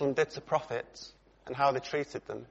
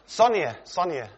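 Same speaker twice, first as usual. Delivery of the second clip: a light hammed-up double call for attention; calling twice; 3 semitones higher than usual. Preacher showing how he doesn't address his wife, mock call. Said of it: "I don't go".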